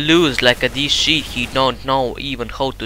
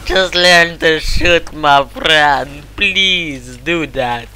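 mock advice; 4 semitones higher, 5 dB louder, much slower than usual. Real, not acted. Mocking teammate who can't shoot.

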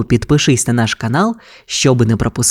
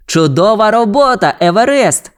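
higher-pitched, upbeat praise; praising; 7 semitones higher than usual. A narrator's reading. Ryder praises husky's work, higher praising voice. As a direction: praise the pup brightly, pitched up. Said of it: "похвалив райдер".

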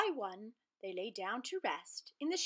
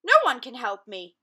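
despairing lion; 3 semitones higher, 14 dB louder than usual. Acted.

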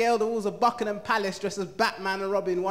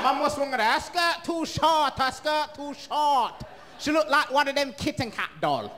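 mum's voice; 4 semitones higher than usual. Retold or imitated. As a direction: drag out the disapproval like a strict mum. Mum criticising son's girlfriend.

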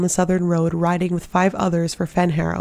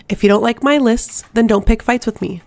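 heated retort; 4 semitones higher, 4 dB louder than usual. Acted. Heated quarrel.

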